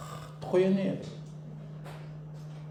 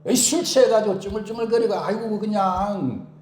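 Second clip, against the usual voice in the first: higher, louder, contemptuous; disgusted grumble; 5 semitones higher, 4 dB louder than usual. Retold or imitated. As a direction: scoff at a drunk. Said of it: "이렇게 한 거예요". (못마땅한 투덜거림)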